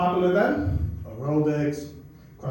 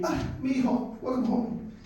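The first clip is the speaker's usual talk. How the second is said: tender, softer mom voice, welcoming her son home; loving mom greeting; 4 semitones higher, 4 dB quieter, slower than usual. Retold or imitated. Proud mom greets her son home from college, softly loving. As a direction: gently greet your boy like a proud mom. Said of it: "Very lovingly".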